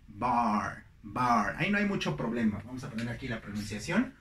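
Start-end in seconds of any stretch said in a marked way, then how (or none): 0.1-1.6 "bar" with a wide open ah. Shown as a demonstration. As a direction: say "bar" low and drawn out on an open ah. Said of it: "Es una A abierta". ("bar" con la A bien abierta)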